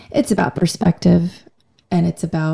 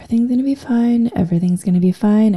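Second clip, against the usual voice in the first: quick self-reassurance; 2 semitones higher, faster than usual. Retold or imitated. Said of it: "you feel the tears rising up".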